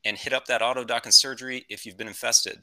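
lightly voiced pilot making an in-flight announcement; a hint of a captain on the intercom; airline captain. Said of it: "This is your captain speaking".

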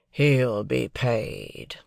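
slow, drawn-out sulky retort. Acted. Drummle sneering at Pip, slow sulky retort. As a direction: drag the words out insolently. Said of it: "retorted Drummle".

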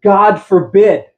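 slow, weighty God forbid; emphatic. Shown as a demonstration. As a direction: let God forbid land heavily. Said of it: "It's emphatic".

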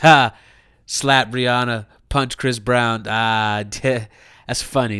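low, lazy chuckling reaction; mock amused approval. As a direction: imitate someone idly amused by a bad joke. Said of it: "they were like".

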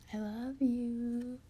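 slow, drawn-out sweet words; tender sign-off. Real, not acted. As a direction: stretch it out lovingly.

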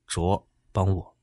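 slow, strained cry for help; pained plea. A narrator's reading. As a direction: beg for help through a splitting headache. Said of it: "他抱着脑袋嚎叫地说".

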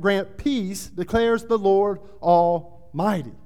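emphatic, declaiming Bible reading; preached scripture reading. A narrator's reading. Preacher reads God's promise to discouraged temple builders, forceful proclamation. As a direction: proclaim the prophecy with rising force, key words punched.

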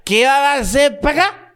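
drunk guy imitation. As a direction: act the drunk buddy from the other day. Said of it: "el compadre el otro día".

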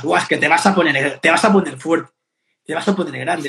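low, loud mock impressed voice; mocking gym skeptic. People mocking him for getting big, low and loud mock awe. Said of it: "comentarios de personas".

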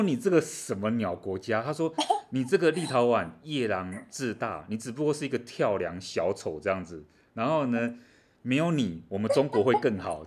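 loud, scornful mock rant from Beijing; mock scolding. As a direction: scold the small country with contempt. Voicing Chinese officials scolding Lithuania.

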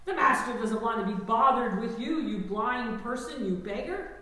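a loud, laughing mock scolding of the beggar; hammed-up religious crowd telling him to hush; mocking bystanders silencing a blind beggar, laughing. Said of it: "told them to do".

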